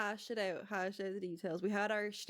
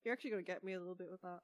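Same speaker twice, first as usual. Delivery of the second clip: choked up; 8 dB quieter, much faster than usual. Real, not acted. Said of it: "Oh, she's crying".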